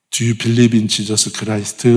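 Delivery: put-on "Do you believe in Jesus Christ?" very slow, heavily Korean-accented; Korean-accented English. Pastor repeats his clumsy evangelism line, Korean-accented. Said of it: "구린 발음".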